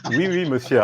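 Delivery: French said with a proper accent; good French accent. Shown as a demonstration. Guest shows his own French, proper French accent. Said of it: "I actually speak good French".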